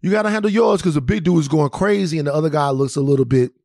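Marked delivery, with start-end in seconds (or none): 0.0-0.8 higher, pumped-up egging on; hyping a friend to fight; drunk hype-up. Retold or imitated. Drunk friends egging the smaller guy on, pumped and higher. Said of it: "we talking our shit".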